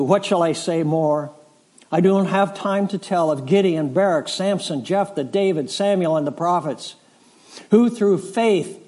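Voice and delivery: building, declaiming list of the faithful; scripture reading. Acted. Reads Hebrews 11 aloud.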